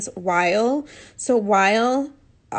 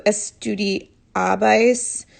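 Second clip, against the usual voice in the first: slow spelling-out; much slower than usual. Shown as a demonstration. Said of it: "like this".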